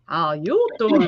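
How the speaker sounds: low, slow how you doing; slow low mock-suave greeting. Real, not acted. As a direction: drop it down like a crooner.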